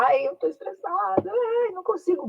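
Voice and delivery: high whiny mock panic; estressada, em pânico. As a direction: wail it as a stressed-out interviewee, pitch way up. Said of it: "Mas se você vai lá". (choramingo agudo de quem está estressada)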